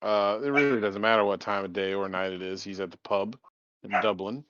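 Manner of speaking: lightly done Irish brogue at the pub; a hint of a Dublin drinker's lilt; Irish accent. Player introducing his Irish character, mild Irish accent. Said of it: "I'll fucking do the the accent".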